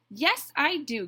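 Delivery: high, loud indignant retort; crying out. A narrator's reading. Goose answers Duck's scolding, crying out. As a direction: cry it out in protest. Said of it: "Goose cried out".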